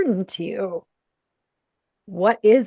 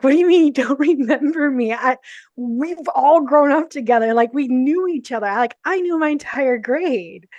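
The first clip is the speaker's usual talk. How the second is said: disbelief; 4 semitones higher, 4 dB louder than usual. Retold or imitated. Shocked at not being remembered.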